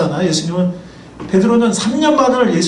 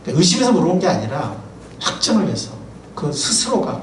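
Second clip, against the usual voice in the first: usual speaking voice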